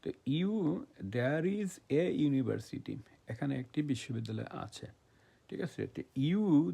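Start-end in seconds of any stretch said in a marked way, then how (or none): 1.0-3.0 slow dictation. Shown as a demonstration. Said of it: "slow example sentence for class".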